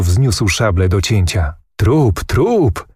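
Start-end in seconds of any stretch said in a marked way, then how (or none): 1.8-2.9 a high, triumphant mock battle cry; calling out. A narrator's reading. Prince calls out to Kmicic, mildly triumphant. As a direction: call out with a touch of glee. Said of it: "zawołał książę".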